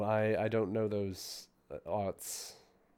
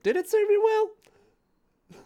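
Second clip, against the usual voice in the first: wry question; 6 dB louder, much slower than usual. Acted. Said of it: "Viz looks at your hand and your leg and is like".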